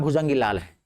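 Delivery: laughing. Real, not acted. Punchline met with laughter.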